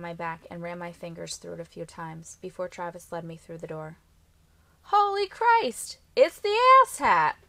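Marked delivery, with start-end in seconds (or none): 4.9-7.4 high, very loud jeering shout; calling out. A narrator's reading. Brother greeting his sibling at the door, calling out. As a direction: holler it across the house. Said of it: "one of the boys called".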